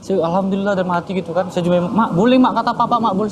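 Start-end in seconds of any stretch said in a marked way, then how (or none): 1.9-3.3 retold excited kid, pitched up; re-enacted eager son; excited news. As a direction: blurt the good news to Mum. Son brings mother the good news.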